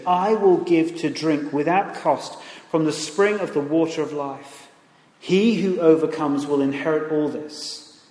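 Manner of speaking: loud, emphatic Bible reading; scripture reading. Acted. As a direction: proclaim the words of God to the church. Reads God's words from Revelation.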